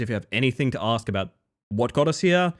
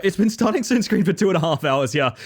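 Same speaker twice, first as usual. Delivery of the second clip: ordinary talk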